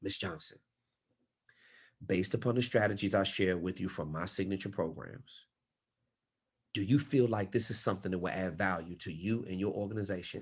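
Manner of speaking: very low, hushed, almost half-whispered. Demonstrating the golden question in a needs assessment: lowered almost to a half-whisper. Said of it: "I'm going to lower my voice almost down to a whisper".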